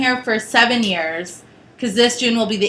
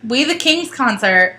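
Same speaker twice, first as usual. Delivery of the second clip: on a bumpy road. Real, not acted. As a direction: voice jolted by road bumps. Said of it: "Sorry for the bumps".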